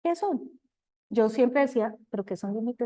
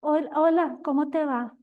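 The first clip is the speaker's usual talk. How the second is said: smug hello, pitched a little up; demonstrating a self-important hello; self-sufficient greeting; 4 semitones higher than usual. Shown as a demonstration. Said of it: "esa expresión de autosuficiencia".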